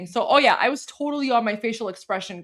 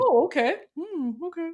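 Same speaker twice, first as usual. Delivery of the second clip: mock skeptical okay; 6 semitones higher than usual. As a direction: fake agreement, knowing smirk. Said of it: "I'm like".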